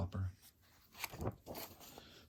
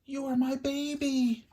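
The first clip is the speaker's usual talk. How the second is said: tearful whisper; 13 semitones higher, 7 dB louder, slower than usual. A narrator's reading. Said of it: "she whispered".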